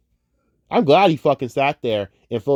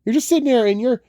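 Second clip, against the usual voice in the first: rising exasperated rant; 12 semitones higher, 3 dB louder than usual. Real, not acted. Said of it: "rant rises in pitch".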